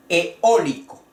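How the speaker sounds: Eólico punched on Ó, falling away; stress on the O. Shown as a demonstration. Teacher shows where the accent goes, stressing O in Eólico. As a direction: lean hard on the O of Eólico. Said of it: "El acento va en la O".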